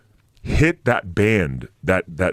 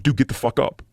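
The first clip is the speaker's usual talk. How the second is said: retold yell; 6 semitones higher than usual. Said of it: "And I'm like".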